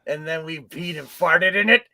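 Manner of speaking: a touch of a lazy stoner voice; seventies druggie. Retold or imitated. His colon tempting him, in a lightly voiced stoner voice. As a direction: lightly play a laid-back seventies druggie. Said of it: "that voice is like a druggie from the seventies".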